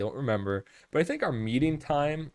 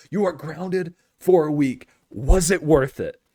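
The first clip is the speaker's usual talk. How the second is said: mock furious yelling, loud, pitched up; 5 semitones higher, 7 dB louder than usual. Storyteller acting out a red-faced dad scolding his kid, imitating a dad yelling. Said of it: "he starts yelling at you".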